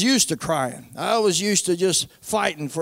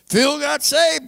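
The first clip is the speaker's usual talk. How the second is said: higher-pitched, emphatic repeat of the news; retold astonishment; 6 semitones higher, slower than usual. Relaying to doubting family that Phil got saved, astonished. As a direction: hit it like unbelievable family news.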